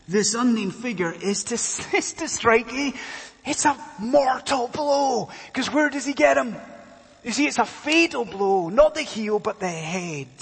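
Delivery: high-pitched, emphatic pulpit delivery; animated preaching. Real, not acted. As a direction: press the point on an excited congregation.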